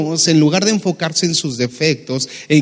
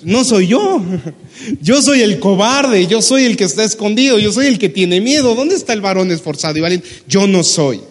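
higher voice, laughing in disbelief; laughing protest; 4 semitones higher than usual. Retold or imitated. Gedeón answering the angel, laughing disbelief. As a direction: laugh it off, surely not me.

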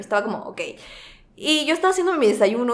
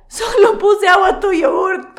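high, slow, offhand mock voice; mock chill brother; 10 semitones higher, 6 dB louder than usual. Brother shrugging off the watered yogurt, slow high mocking chill voice. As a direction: play it innocent and unbothered, lightly mocking. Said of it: "como que chill".

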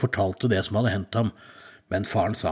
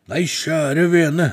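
troll voice; 6 semitones higher, 5 dB louder, much slower than usual. Acted. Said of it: "sa trollet".

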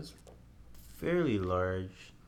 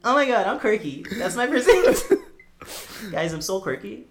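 high squealing quirky voice; mock quirky; 13 semitones higher, 10 dB louder than usual. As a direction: play it up as a ditzy quirky girl. Mocking being called quirky.

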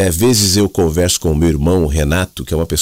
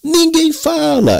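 put-on hammy Italian accent from Mooca, pitched way up; 12 semitones higher than usual. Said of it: "ele tinha um sotaque italianão, da Moca".

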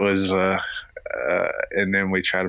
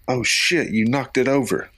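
lightly voiced little boy, higher pitch; a hint of a startled child, pitched up; imitating young son; 6 semitones higher than usual. Son reacts to his toy knocked off the couch, lightly imitated higher voice. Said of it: "And he goes".

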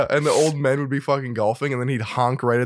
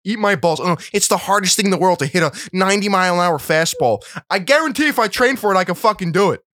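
heated rant; 4 semitones higher than usual. Real, not acted. Mock-heated rant against baseball.

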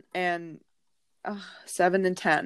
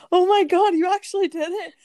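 high, quick burst of mock astonishment; imitated amazement; 11 semitones higher, 6 dB louder than usual. Karen reacting to the caught mouse, high imitated amazement. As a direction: act out a friend's high-pitched disbelief.

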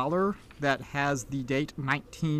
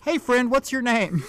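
put-on higher, friendly country child; little girl; 7 semitones higher, 4 dB louder than usual. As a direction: ask like a curious small girl. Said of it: "the little girl pipes up".

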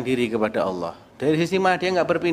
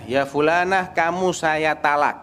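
firm divorce declaration; 3 semitones higher than usual. Retold or imitated. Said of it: "kata-kata yang tegas dan gamblang".

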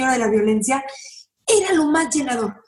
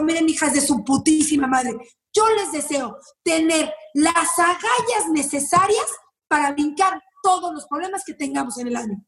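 blunt real wish. Retold or imitated.

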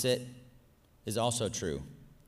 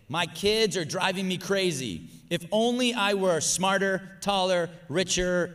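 a mildly higher, louder, whiny complaining voice; voicing negative self-talk; 5 semitones higher, 5 dB louder, slower than usual. Shown as a demonstration. Preacher reads the listener's negative thoughts in a mild whine. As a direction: act out the defeatist inner voice. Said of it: "I'm just gonna read through them".

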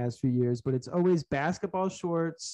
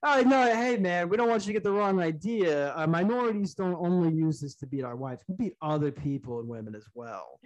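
mock earnest coworker; 2 semitones higher than usual. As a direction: play it falsely reassuring.

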